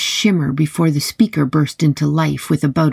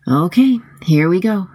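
psyching up; 3 semitones higher than usual. Acted. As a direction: pump yourself up to go in. Psyching herself up.

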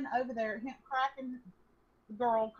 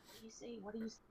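hushed, much softer urgent question; whispering; 11 dB quieter, much faster than usual. Retold or imitated. Sisters hiding by the window, hushed and scared. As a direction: keep it barely audible so nobody hears. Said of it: "we're whispering to each other".

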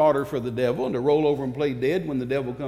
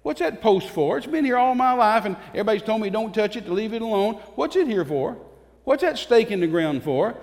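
a hint of a curious child asking grandpa, pitched higher; lightly voiced wondering youngster; curious grandchild; 5 semitones higher than usual. Grandchild asking grandpa about the stones, mildly higher. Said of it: "your children and your grandchildren".

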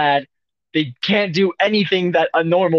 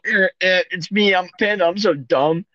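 higher-pitched dopey panda voice; mock a panda as a dumb animal; goofy mimicked panda noises and whine; 4 semitones higher, faster than usual. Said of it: "They make lots of noises. They go".

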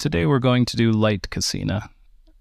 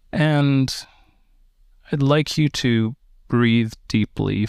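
calm, unhurried meditation guide with long pauses; slow, even-toned breathing instructions; guided meditation. Real, not acted. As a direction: guide them gently into relaxation, leaving space between phrases.

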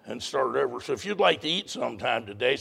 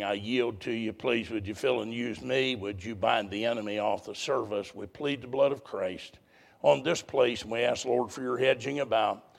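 public prayer. Real, not acted. Leads the congregation in prayer.

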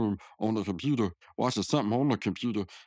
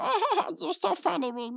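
much higher, laughing through it; giggly girl. Retold or imitated. Margaret laughing at Rigby's joke, high and giggly.

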